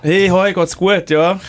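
mock cheery greeting. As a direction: greet like a chirpy stranger. Acting out an awkward sauna greeting.

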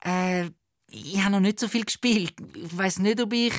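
stammering. Acted. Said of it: "stottert der Tommy".

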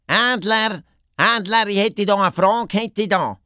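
high, urgent hare's call. A narrator's reading. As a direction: call up to someone high overhead. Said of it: "der Doppelhas ruft auf". (ufe rüefe)

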